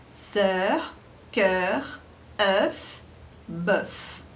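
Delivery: sœur, cœur, œuf, bœuf with rounded eu; French eu sound. Shown as a demonstration. Teacher modeling eu words to students. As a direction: round the lips for each eu. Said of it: "que dá o som de E".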